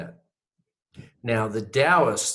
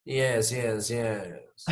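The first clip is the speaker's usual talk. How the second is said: solemn yeses; 5 dB quieter, much slower than usual. Pretend. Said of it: "all I can say is".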